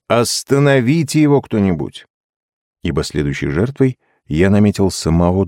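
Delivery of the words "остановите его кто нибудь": raised, higher-pitched cry for help; mock yell. A narrator's reading. Jake begging the others to stop the joker, crying out. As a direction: cry out in protest. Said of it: "Джейк возопил".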